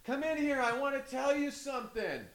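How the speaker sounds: put-on very high, soft old-lady voice; old grandma voice. Imitating grandma calling her grandson in, high and soft. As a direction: coax him in like a frail grandmother. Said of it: "And she goes".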